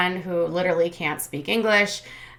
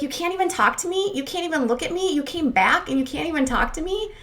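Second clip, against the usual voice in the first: imitating upset pleading; 10 semitones higher than usual. Retold fight, Mackenzie pleading.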